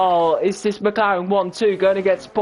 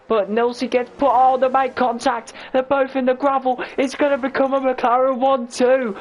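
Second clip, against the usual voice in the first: excited; 5 semitones higher than usual. Real, not acted. Excited sim racing crash call.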